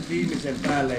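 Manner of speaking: ordinary delivery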